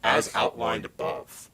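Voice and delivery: slow, low distorted voice; devil. Real, not acted. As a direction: drag it out low and demonic. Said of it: "He literally sounds like a devil".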